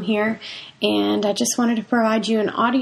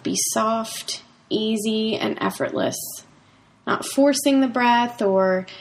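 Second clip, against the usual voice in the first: guided meditation. Acted. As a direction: ease them into calm breathing. Leads a breathing meditation.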